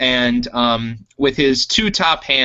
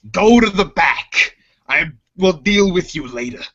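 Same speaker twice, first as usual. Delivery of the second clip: dismissive order; 5 semitones higher than usual. Acted. Chopper orders Jovel to the back, stern. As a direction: send him away sharply. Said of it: "And he goes".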